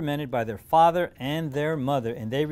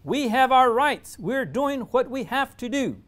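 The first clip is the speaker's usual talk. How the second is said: firm declaration; 8 semitones higher, 5 dB louder than usual. A narrator's reading. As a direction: stand tall and declare your rights. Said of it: "straightens up and declares".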